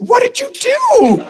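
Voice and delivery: lightly high, slow concerned wife; wife asking in alarm; high mock wife. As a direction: play his worried wife. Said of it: "She said".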